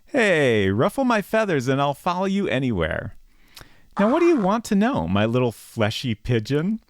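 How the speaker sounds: flirty egret voice. Acted. Egret flirting with the player, high and cheeky. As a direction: play a smug egret sweet-talking the hero.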